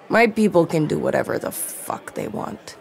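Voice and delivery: forced out between clenched teeth; through gritted teeth. Acted. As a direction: speak with jaw clenched tight. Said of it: "slid through Sauveterre's gritted teeth".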